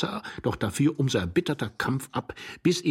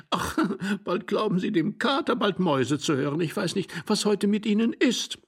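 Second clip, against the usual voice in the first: higher, indignant woman's voice; scolding young wife; 11 semitones higher than usual. A narrator's reading. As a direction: scold the husband, pitched well up. Young wife exasperated with husband.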